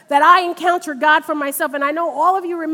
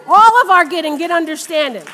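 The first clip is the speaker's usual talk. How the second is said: louder preached repeat of the verse; preacher repeating the verse louder to the congregation, emphatic; 5 dB louder than usual. Acted. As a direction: hammer the verse home. Repeats scripture with force.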